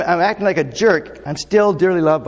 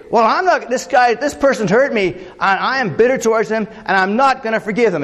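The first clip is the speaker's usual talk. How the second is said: higher-pitched mock indignation; indignant refusal; 6 semitones higher than usual. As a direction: act out a hurt person refusing to forgive. Voicing an unforgiving hurt believer.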